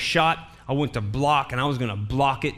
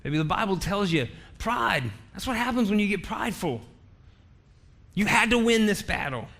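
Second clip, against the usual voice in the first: mock wifely scolding, higher and gentle; loving reproof; 4 semitones higher than usual. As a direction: chide lightly in a raised pitch. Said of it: "she's gotta do it with love".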